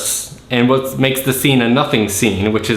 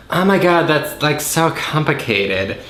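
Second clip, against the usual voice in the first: a touch of mock helplessness; lightly voiced Alex; 3 semitones higher than usual. Alex baffled by export steps, lightly mocked helplessness. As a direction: lightly imitate a baffled, dragging complaint.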